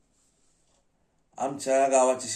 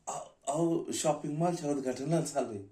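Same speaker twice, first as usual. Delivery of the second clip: higher-pitched, stammering start; hesitant explanation; 5 semitones higher than usual. Acted. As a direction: explain yourself to a guard who stopped you. Stammered answer to challenging guard.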